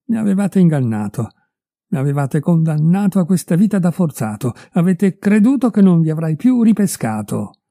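wronged man, half triumphant, half shaken; accusing old husband, rising anger; wronged husband confronting. A narrator's reading. Parent accuses them.

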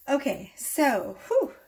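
breathless from running down the hallway; puffing, catching her breath. Real, not acted. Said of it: "I'm a little out of breath".

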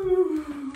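long, sailing playful "woo"; eagle flight whoosh. Pretend. Teacher flying as an eagle from the tree, playful whoosh. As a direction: glide out on a drawn-out woo.

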